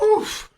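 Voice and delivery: high, mock-shocked "oof"; high exclaimed oof; shocked crowd gasp. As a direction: imitate a scandalized audience gasp. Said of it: "And everyone's like".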